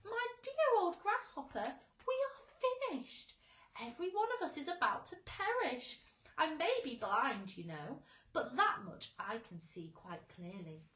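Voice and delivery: high, loud doom-laden worm voice; gloomy earthworm. A narrator's reading. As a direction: wail that all is lost.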